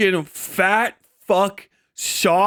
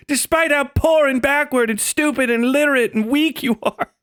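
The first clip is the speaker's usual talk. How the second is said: mock consoling; 3 semitones higher than usual. Mock consoling an Iranian guard.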